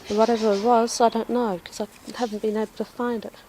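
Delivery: slightly out of breath. Real, not acted. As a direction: talk a bit winded. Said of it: "if I'm out of breath".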